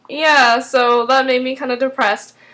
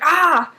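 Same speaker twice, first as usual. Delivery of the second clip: mock cry of pain, higher; imitated pained groan; 6 semitones higher than usual. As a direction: act out a sudden pang. Imitates sick man at the cashier.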